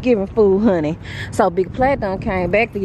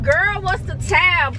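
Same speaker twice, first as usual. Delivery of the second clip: surprised question; 9 semitones higher, slower than usual. Retold or imitated. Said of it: "And I was like".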